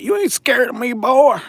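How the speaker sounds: high-pitched mock threat; intimidating local guy. Streamer retells guy with a knife, high mocking intimidation. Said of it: "So the guy's like".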